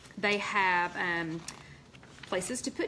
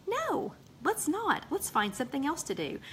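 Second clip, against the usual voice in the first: mock refusal; 7 semitones higher than usual. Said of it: "then I would say".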